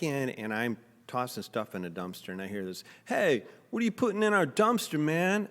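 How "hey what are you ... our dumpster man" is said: much higher, louder yell; shouted challenge. Retold or imitated. Stranger yelling at him over the dumpster, loud challenge. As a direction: bark a challenge across the alley.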